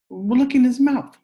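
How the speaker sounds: high, loud urgent call; urgent exclaim. Acted. Jimmy showing Peter the wound, loud high urgency. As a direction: point it out fast.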